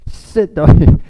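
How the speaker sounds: sudden loud, high command; shouted order. Retold or imitated. Teacher shouting at the class, loud and high. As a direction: bark it at the whole class.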